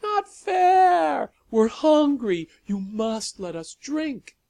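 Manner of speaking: high petulant creature whine; whining vampires. A narrator's reading. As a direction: whine like starving monsters. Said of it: "A chorus of whining started up".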